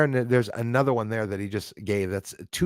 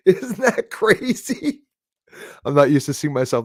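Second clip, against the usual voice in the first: laughing; 4 semitones higher, 4 dB louder than usual. Real, not acted. Laughing at his thin arms.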